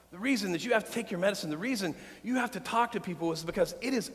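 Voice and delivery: soft pastoral voice. Acted. Pastor softly comforting his hurting congregation, hushed.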